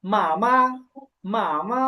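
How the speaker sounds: first "মা" held long, second "মা" short and light; careful Chinese "মা, মা", long toned syllable then a light one; first tone then neutral. Shown as a demonstration. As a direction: stretch the first "মা", let the second "মা" go unstressed. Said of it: "প্রথমে আছে first tone".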